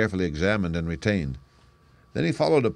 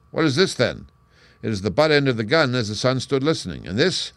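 quick, eager muttering to himself, pitched up; a detective thrilled by the clues, thinking aloud; eager sleuth talking to himself over footprints; excited muttering; 5 semitones higher, 6 dB louder than usual. Acted. Holmes muttering over the tracks.

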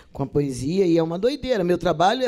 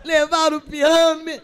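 high, loud giggly verse; mock-cheerful squealed recital; reciting while laughing; 10 semitones higher, 6 dB louder than usual. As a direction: mimic someone unable to stop grinning. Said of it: "Mas você tá rindo?".

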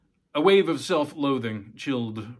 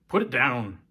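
louder sharp order; harsh; 6 dB louder than usual. Acted. Father ordering daughter to drop the bloody placard, harsh. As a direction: snap it at her. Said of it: "His voice came out harsh".

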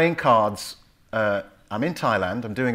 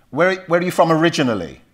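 annoyed questioner; 6 semitones higher, 5 dB louder, faster than usual. Retold or imitated. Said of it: "you can tell they're getting annoyed".

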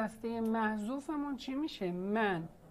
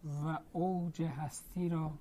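slow dictation; 4 semitones lower, 7 dB quieter, slower than usual. Real, not acted.

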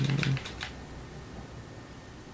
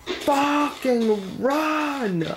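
urgent run; 9 semitones higher, much slower than usual. Real, not acted. Fleeing mobs.

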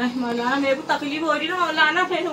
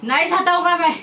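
slightly raised, forced reply; louder on demand; 2 semitones higher, 4 dB louder than usual. Real, not acted. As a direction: answer up when ordered to speak louder. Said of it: "जोर से बोल।".

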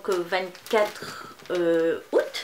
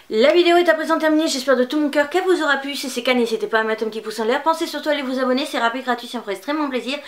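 fast, loud and upbeat outro patter; video sign-off; 4 semitones higher, 4 dB louder, faster than usual. Acted. Vlogger wrapping up her haul video for viewers, fast and upbeat. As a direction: rattle off the goodbye like a practised YouTuber.

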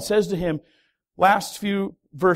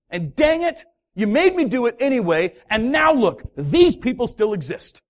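frustrated outburst; 4 semitones higher than usual. Acted.

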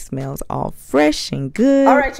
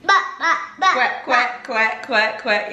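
high playful ribbit and quack; 4 semitones higher, 4 dB louder, slower than usual. Real, not acted. Animal sounds for toddler.

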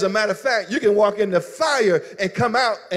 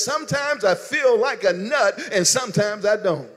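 commercial jingle. Retold or imitated. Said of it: "I recall this commercial".

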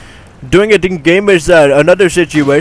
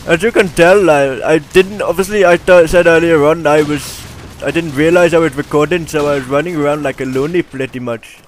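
put-on Indian-accented game commentary voice. Gamer narrating his gameplay clips, in an Indian accent. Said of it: "this is my Indian voice".

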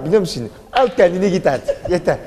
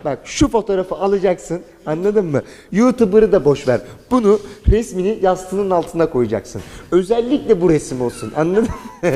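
hammed-up promo, raised voice, stretched lines; mock matchmaker pitch; 4 semitones higher than usual. Addressing young girls on camera, mock promo voice. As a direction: sell the guy like a product.

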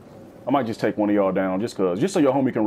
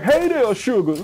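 grandma greeting; 10 semitones higher than usual. Retold or imitated. Grandma greeting her grandkids, high sweet coo. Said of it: "She'll be like".

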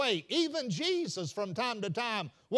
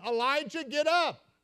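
angel waking him; 4 semitones higher than usual. Acted. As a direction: call him up gently, then lift it. Angel nudges Elijah awake.

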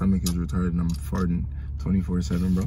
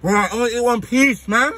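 pained outburst; 12 semitones higher, 5 dB louder than usual. Real, not acted. Suffering from spicy food.

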